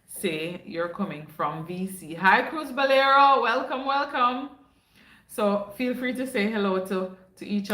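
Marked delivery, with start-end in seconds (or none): 2.1-4.5 slow cheerful welcome. Real, not acted. Greeting a viewer by name.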